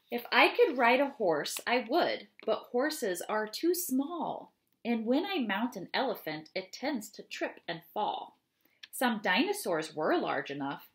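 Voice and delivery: expressive read-aloud of a rhyming poem. Acted. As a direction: read it to the children with lively rhythm. Reads ogre poem aloud.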